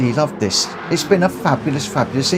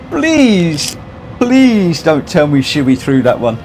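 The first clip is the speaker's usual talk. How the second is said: pleading; 5 semitones higher, 4 dB louder, slower than usual. Real, not acted. Pleading over a rival's result.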